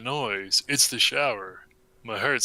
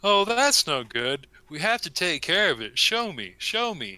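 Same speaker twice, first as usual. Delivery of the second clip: lightly voiced mom; 5 semitones higher than usual.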